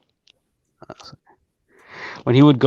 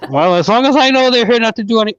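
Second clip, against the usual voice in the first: raised, bargaining dog voice; the dog setting conditions on visitors, voiced higher; voicing the dog; 9 semitones higher than usual. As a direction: lay down the dog's terms.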